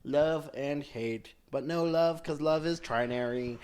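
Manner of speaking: lightly voiced droning robot. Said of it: "show us what".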